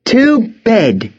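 high, curt order from a headmistress; stern headmistress. A narrator's reading. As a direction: cut off the protest firmly. Headmistress cuts off a protest.

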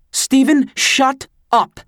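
high, loud furious shout; a mother yelling at her son to stop talking, high shout; shouting mom. A narrator's reading.

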